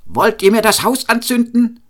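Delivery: high-pitched indignant cry; angry shouted question. A narrator's reading. Cobbler rushing barefoot into the kitchen, shouting angrily. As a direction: cry out in alarm, pitch leaping up. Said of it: "schrie er".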